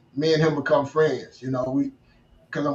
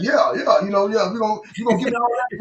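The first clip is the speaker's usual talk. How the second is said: higher, mock-confident bluff; acting like he knows; 5 semitones higher than usual. Bluffing the suited sales guy, mock swagger. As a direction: fake that you understand every word. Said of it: "I'm trying to act".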